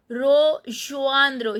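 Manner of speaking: "rejoindre" as "ro-joandro", E rounded to "o"; E sound demo. Shown as a demonstration. Teacher showing the French E, "rejoindre" starting "ro". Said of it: "I am pronouncing the E as A".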